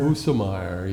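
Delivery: Busemeyer said BOO-suh-myer; German pronunciation. Shown as a demonstration. Interviewer echoing the German form of the name, German pronunciation. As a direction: give Busemeyer a German oo and a middle uh. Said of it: "that would be the German".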